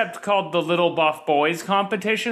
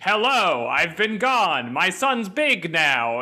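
vacant Goku; 4 semitones higher, slower than usual. Retold or imitated. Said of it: "His eyes are drawn like they're veering".

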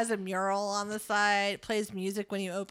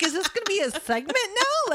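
mock alarm; 9 semitones higher, 3 dB louder, faster than usual. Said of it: "and I'm like".

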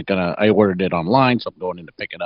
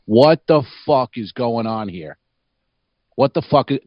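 loud angry demand; 2 semitones higher than usual. Retold or imitated. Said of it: "so everyone can hear".

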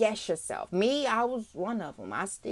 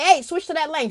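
raised, higher warning voice; urgent inner warning; 6 semitones higher, 6 dB louder than usual. Acted. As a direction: call out a sudden instruction. Voices an inner warning while driving.

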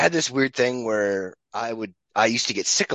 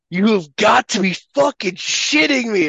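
higher and louder, an imitated stunned outburst; retold disbelief; 10 semitones higher, 5 dB louder than usual. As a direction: replay the shock of losing a tooth. Tooth falls out mid-bite.

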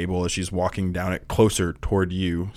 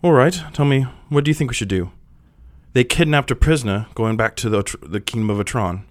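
higher, louder in-character challenge; commander figure in council; 5 semitones higher, 5 dB louder than usual. Acted. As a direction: demand advice, pitched up and forceful. Game master voices Cadius replying.

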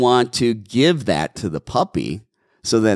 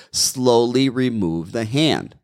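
slowly; 3 semitones higher, slower than usual. Shown as a demonstration. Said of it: "slowly, not quickly".

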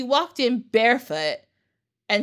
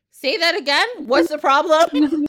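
menacing pirate challenge; 4 semitones higher, 5 dB louder than usual. Retold or imitated. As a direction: square up, knife in hand. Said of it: "Grace would just show up with her knife and be like".

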